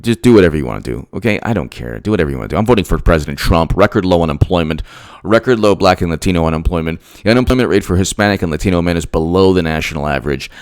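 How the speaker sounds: voiced inner thought. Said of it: "you should probably think".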